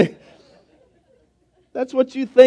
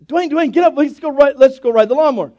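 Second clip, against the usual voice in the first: put-on higher, eager child pleading to go ride; excited kid calling; 6 semitones higher, 3 dB louder than usual. Little boy waking the big man for a mower ride, excited calling. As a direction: call him up like a boy who can't wait.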